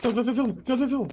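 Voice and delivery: high, loud repeated order; shouting commands. Acted. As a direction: yell to shut it now. Shouting to shut the door.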